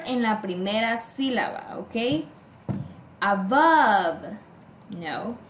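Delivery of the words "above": above with BOVE drawn out; stress on second syllable. Shown as a demonstration. Teacher hunting for stress patterns, second syllable stretched. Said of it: "same syllable stress pattern".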